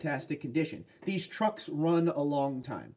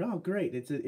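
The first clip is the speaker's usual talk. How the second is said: ordinary talk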